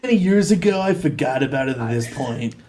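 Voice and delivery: a hint of carefree bro; surfer bro. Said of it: "He's like a surfer bro".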